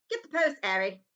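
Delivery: a hint of a gruff uncle; uncle's order. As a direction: order the boy about. Vernon ordering Harry.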